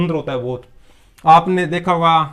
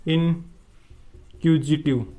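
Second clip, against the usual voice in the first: इनक्यूजिटिव drawn out very slowly syllable by syllable; teacher slowly sounding out इनक्यूजिटिव; slow spelled-out word; 3 dB quieter, much slower than usual. Shown as a demonstration. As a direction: stretch इनक्यूजिटिव slowly so students catch it. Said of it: "इसके लिए एक word है इनक्यूजिटिव".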